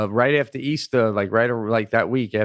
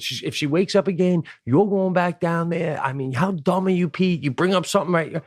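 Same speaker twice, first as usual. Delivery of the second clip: retold scolding wife; 6 semitones higher than usual. Acted scolding by his wife.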